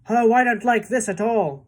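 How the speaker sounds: high, loud whining earthworm; wailed. A narrator's reading. Earthworm wailing to James about the seagull, loud. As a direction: moan about the danger. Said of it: "wailed the earthworm".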